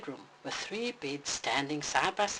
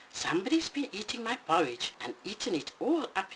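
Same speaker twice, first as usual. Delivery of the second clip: mild wail; 4 semitones higher than usual. Acted. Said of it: "he wailed".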